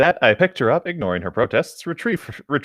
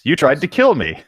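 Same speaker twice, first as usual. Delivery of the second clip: loud, indignant accusation; accusing yell; 4 semitones higher, 5 dB louder than usual. Acted. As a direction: throw the charge at her. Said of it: "Lancelot yelled".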